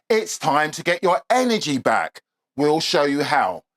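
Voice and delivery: soft, steady promo read. Acted. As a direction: sell it smoothly and evenly. Reads a promo for the cheat sheet.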